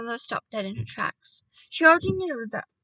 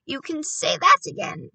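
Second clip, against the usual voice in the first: heartily raised, higher agreement; crying out; 5 semitones higher, 6 dB louder than usual. A narrator's reading. Grandmother agreeing with the boy, crying out. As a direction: exclaim it in keen agreement. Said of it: "my grandmother cried".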